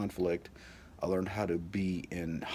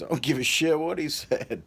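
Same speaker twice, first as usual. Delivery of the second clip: much louder and higher furious shout; yelling dad; 9 semitones higher, 8 dB louder than usual. Retold or imitated. Father yelling at son to fix yard anyway, shouting. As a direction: blast him with the order.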